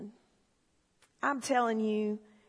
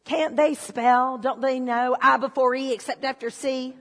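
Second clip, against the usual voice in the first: mock indignant; 6 dB louder than usual. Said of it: "I'm like".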